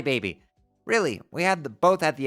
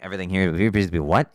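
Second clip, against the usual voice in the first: incredulous repeat; 10 semitones lower, 4 dB louder, faster than usual. Acted. Mock questioning the read line.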